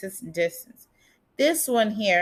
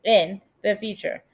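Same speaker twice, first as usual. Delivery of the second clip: wearing a retainer. Real, not acted. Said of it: "it's really hard to speak with my retainers in".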